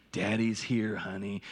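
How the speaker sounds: gentle new father to his crying daughter; soothing dad. Retold or imitated. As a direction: lean in and soothe the baby. Dad soothing screaming newborn.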